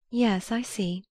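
lightly voiced wife, simple and mild; a hint of brightness, simply said. A narrator's reading. Wife listening to husband's plans, simple lightly voiced reply. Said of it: "she said simply".

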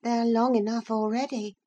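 a hint of a prissy young gentleman; prim boy's remark. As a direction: Linton sniffing at the boy's hair. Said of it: "observed Master Linton".

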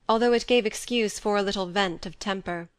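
plain reading voice

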